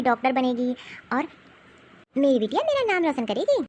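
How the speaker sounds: calm her down and promise she'll stay; mother reassuring her crying daughter; comforting mother. Acted.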